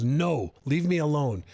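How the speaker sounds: mildly cross, imitated refusal; a touch of anger in a quoted no; angry mother. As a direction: retell a mother's irritated brush-off. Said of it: "She was, like, angry".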